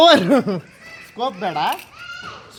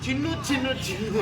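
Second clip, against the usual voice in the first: cooing pet name; 4 semitones higher, 6 dB quieter than usual. Shown as a demonstration. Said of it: "ಕಿವಿಗೆ ನೀನ್ ಹೇಳೋ".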